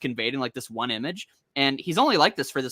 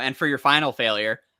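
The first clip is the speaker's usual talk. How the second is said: ordinary delivery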